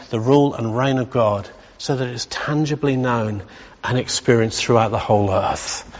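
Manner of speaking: winded, fading out of breath. Real, not acted. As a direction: run out of breath at the end. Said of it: "I'm out of breath with all that".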